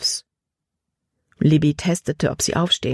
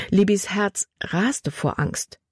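usual speaking voice

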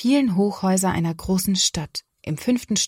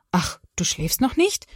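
surprised. Acted. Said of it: "sagt Papa erstaunt".

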